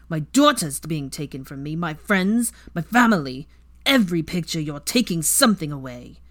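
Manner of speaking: raving. Acted. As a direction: rave as if seeing the pictures. Weasley raving, thrashing.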